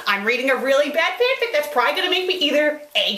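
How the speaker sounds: ordinary talk, nothing marked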